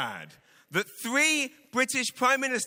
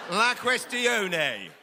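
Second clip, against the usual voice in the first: mock French ending; much slower than usual. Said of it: "Now hear it in French".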